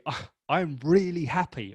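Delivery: bright, meant I'm really happy; honest joy; genuinely happy. Shown as a demonstration. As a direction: let the happy come through. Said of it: "honor the word happiness".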